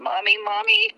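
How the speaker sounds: put-on high little-girl wail of Mommy; mother voicing her scared two-year-old; imitating panicked toddler. Mom retelling her panicking toddler crying out for her, in a high child's voice.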